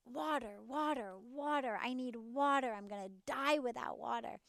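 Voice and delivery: a fish begging for water, lightly voiced; desperate fish. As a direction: cry out for water like a fish flopping on land. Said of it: "And the fish says".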